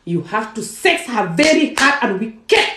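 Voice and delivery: slow, high stress on "very hard and wicked"; imitating their emphasis. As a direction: quote them, hammering "very hard and wicked" slowly. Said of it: "this is how they say".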